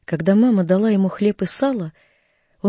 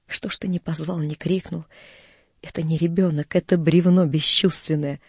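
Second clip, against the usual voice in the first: bitter reproach; 3 semitones lower than usual. Acted. Mother blames boy for not calling, bitterly. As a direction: reproach him under your breath.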